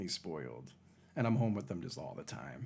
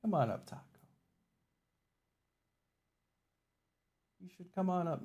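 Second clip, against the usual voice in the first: higher, coaxing the cat upward; high coaxing pet voice; 9 semitones higher than usual. Real, not acted. Streamer inviting her cat Taco up in a high coaxing voice. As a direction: lure him up in a high voice.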